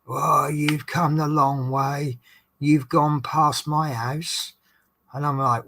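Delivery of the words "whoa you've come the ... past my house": drawn-out, mildly indignant complaint; mock kicking off. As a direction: imitate a passenger slowly griping. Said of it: "this guy's kicking off".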